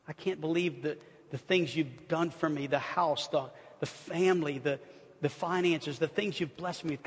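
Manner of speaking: preacher prays Psalm twenty-three as an example, earnestly; spoken prayer. Acted. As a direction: pray it from the heart.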